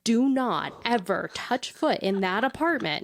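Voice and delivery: stern scolding mom voice. Retold or imitated. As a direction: scold her like a strict mom. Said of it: "my mom voice".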